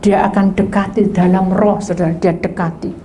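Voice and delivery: ordinary delivery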